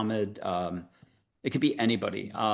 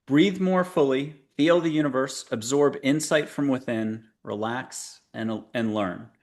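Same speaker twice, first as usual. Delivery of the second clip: affirmation reading. Acted. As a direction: lead the listener gently into calm. Reads an affirmation slowly.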